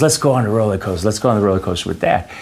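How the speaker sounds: put-on quick, eager kid pleading; fast, keen child voice. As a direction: hurry the brother along, excited. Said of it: "He goes".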